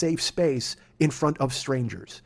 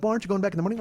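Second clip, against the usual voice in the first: higher, polite, careful question; 5 semitones higher, 4 dB quieter, much faster than usual. Retold or imitated. Driver politely questioning a fretting passenger, in a higher innocent tone. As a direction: ask it nicely and innocently. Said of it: "but I didn't say it like that".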